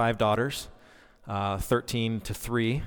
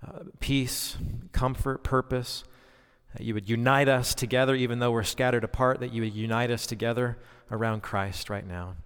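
prayer. Acted. Prayer to close opening.

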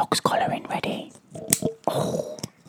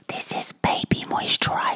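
whispering. Real, not acted. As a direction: whisper close to the mic. Whispering ASMR chat.

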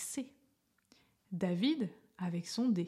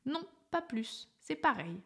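put-on children protesting; 5 semitones higher than usual. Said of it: "Les enfants s'écrièrent".

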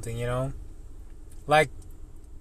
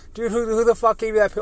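retold annoyed demand; 8 semitones higher than usual. Confronting coworker about picture.

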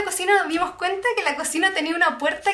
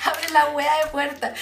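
angry retort; much slower than usual. Retold or imitated. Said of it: "Y nosotras como".

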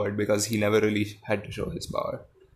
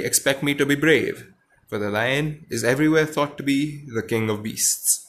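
story reading. A narrator's reading. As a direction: read the lion and Dorothy scene to the class. Reads Oz story aloud.

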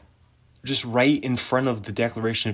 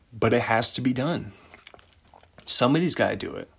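matter-of-fact, level delivery; Ben; faster than usual. Acted. Imitating Ben insisting somebody has to do it, matter-of-fact. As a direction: state it plainly, as simple fact. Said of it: "how matter of fact he is".

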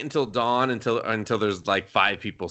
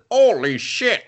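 higher, hammed-up bad-English exclamation; over-the-top bad anime English; 10 semitones higher, 4 dB louder, slower than usual. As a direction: mimic a terribly delivered English anime catchphrase. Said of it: "Like, he says".

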